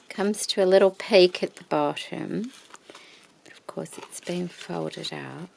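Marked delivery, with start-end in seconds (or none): 3.4-5.5 whisper=40. Real, not acted. Whispering aside.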